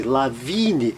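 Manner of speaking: lavine, long I; long I demo. Shown as a demonstration. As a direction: stretch the I in lavine. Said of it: "é som longo". (I alongado em lavine)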